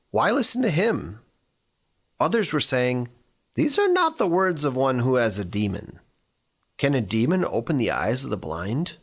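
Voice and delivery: measured, lifted reading of the Gospel; scripture reading. Acted. Pastor reads the Gospel to the congregation, measured and lifted. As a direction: read the passage aloud to the congregation.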